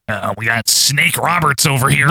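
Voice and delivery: lightly voiced ringside announcer; Gordon. Host imitates the commentator introducing a wrestler, mock announcer voice. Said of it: "And then Gordon".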